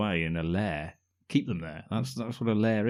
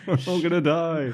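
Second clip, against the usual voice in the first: mock panic; 9 semitones higher, 6 dB louder than usual. Mock panicked wedding guest.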